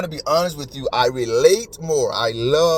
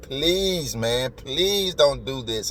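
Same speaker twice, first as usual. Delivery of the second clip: imitated begging; much slower than usual. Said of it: "The officer is begging them".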